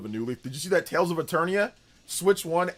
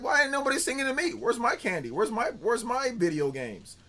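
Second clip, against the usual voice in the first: put-on whiny kid complaint; 8 semitones higher than usual. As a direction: whine like a left-out little kid. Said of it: "I'm like".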